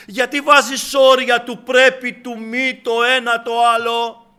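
high, loud exhortation; forceful preaching. Acted. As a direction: urge the congregation to cry out.

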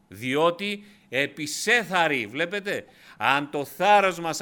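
κήρυγμα με πάθος, πιο ψηλά και δυνατά; ανεβάζει τον τόνο σαν ιεροκήρυκας; δυνατό κήρυγμα. Acted. Preacher builds to full force. (κήρυγμα με έξαρση, ψηλή και δυνατή φωνή)

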